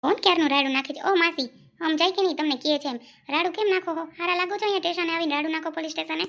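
rapid, sharp telling-off; fast irritated police reprimand; angry scolding. Acted. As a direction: scold her fast for shouting in the station. Officer scolds shouting woman.

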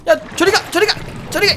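high, pleading shoo-away; panicky shoo. Acted. Streamer shooing monsters from the boat, high panicky pleading.

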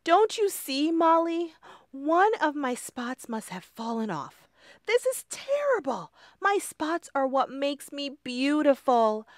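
high, pleading, upset voice; high, wailing worry; distressed ladybug. Acted. Lindy despairs, near tears.

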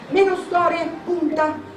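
high, loud, imperious retort; frenzied impatience. A narrator's reading. Grandmother overruling his advice to hold back, frenzied. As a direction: cut off all objections, wild with eagerness. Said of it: "tremando tutta per la frenesia".

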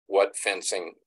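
normal talking voice

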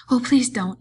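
high, loud, panicked plea; frightened pleading; begging. A narrator's reading. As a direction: beg in a simple man's panic. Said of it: "he begged".

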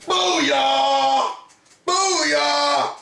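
punchy gamer cheer; triumphant booyah. Real, not acted. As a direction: celebrate a win. Triumph at solving puzzle.

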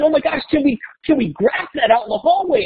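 put-on high, eager kids' voice; excited kids. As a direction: ask like thrilled students begging. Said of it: "And they said".

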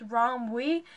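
Romwe said slowly as ROM-wee; pronounced Rom-wee. Shown as a demonstration. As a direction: settle on an "ee" ending for Romwe. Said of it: "that's how I'm gonna pronounce it".

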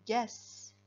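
"gaspiller" broken into gas, pi, yer; syllable by syllable. Shown as a demonstration. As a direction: say "gaspiller" in separate syllables with clear gaps. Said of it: "le i sert à faire la syllabe pi".

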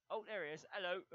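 loud, high greeting on spotting someone; excited discovery. Real, not acted. Gamer finally spots his opponent, loud and excited. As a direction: call out high as you spot him.

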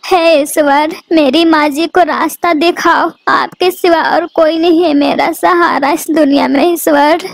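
worried mother crying out her prayer; anxious prayer. Acted. Worried bird prays to God.

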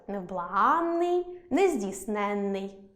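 slow невблаганний, нездійсненний, stress on АНН and ЕНН; stressed suffixes. Shown as a demonstration. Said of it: "У наголошених суфіксах". (невблаганний, нездійсненний повільно, з наголосом на суфіксах АНН, ЕНН)

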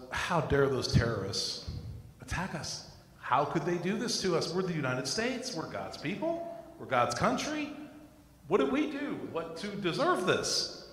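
rising, incredulous mock outrage; indignant outrage. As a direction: replay his old wounded pride. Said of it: "my initial reaction was".

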